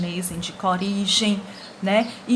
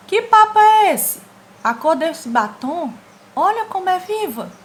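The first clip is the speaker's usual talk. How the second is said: much higher and louder, outraged; exaggerated indignant character; 9 semitones higher, 6 dB louder than usual. Teacher voicing a comic character, outraged and shrill-loud. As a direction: squeal it like a shocked cartoon kid.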